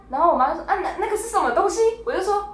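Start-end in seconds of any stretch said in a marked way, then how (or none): 0.7-2.0 high mock stammer of mom. Mimicking mom stammering over the strange product. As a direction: imitate mom tripping over her words. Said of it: "这个结巴是我妈结巴".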